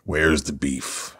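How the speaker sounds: jokey catchphrase. Pretend. Jokey catchphrase after the rant.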